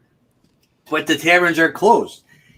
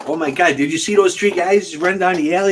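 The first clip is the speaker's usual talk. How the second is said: pretend alarm; 4 semitones higher than usual. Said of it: "pretend like someone threw you in there".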